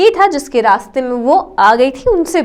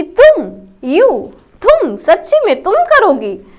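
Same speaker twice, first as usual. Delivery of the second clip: amused disbelief; 4 semitones higher than usual. Retold or imitated. A monkey scoffing at the squirrel, with amused high disbelief. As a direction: laugh the words out in disbelief. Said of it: "उसको बहुत हंसी आई".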